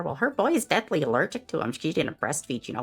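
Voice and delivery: gossipy Karen. Acted. Karen gossiping about the neighbours' snacks, catty. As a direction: dish the dirt sweetly.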